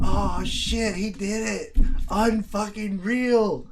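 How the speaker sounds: loud, high mock shock from the chat; imitating viewers. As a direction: ham up the viewers' surprise. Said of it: "you guys would be like".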